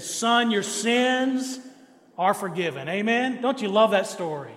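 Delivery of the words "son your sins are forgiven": each word laid down slowly with a pause before are forgiven; slow, drawn-out delivery. Shown as a demonstration. Preacher slowly savouring the words to his church. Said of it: "and he said".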